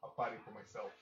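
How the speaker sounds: wrestling promo. Acted. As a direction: growl the challenge at the crowd. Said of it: "I love doing announcer voices".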